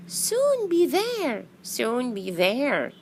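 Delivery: high, drawn-out soothing call; reassuring singsong. Acted. Fireflies pat the tired bee, reassuring. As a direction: soothe a tired friend, slowly.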